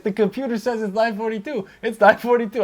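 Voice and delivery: put-on insistent kid. Kid insisting to his dad about the time, mimicked child voice. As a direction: pitch it up like a little kid reporting in.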